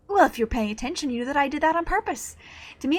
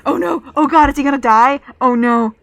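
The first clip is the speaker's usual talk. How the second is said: alarmed outburst; 11 dB louder than usual. Real, not acted. Character about to fall from building.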